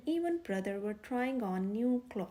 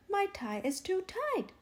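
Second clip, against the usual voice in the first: whiny, higher complaint; complaining; 7 semitones higher than usual. Acted. Brother complaining to his parents about his tie, whiny. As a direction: whine it to get sympathy. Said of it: "complained Brother".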